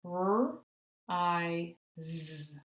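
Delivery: R, I, Z tapped out one sound at a time; segmenting R I Z sound by sound; tapping out sounds. Shown as a demonstration. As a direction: sound out R… I… Z with the Z buzzed. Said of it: "let's tap it out and make that Z".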